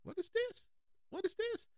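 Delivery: high squeaky disbelieving what; baffled surprise. Retold or imitated. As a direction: shoot way up in pitch, stunned and confused. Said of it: "I'm like".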